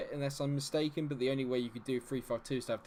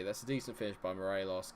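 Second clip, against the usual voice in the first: ordinary talk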